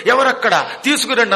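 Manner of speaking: loud royal call for servants; commanding call. Retold or imitated. Duryodhana calling out loudly to his servants for pillows. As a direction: bark it out like a king summoning attendants.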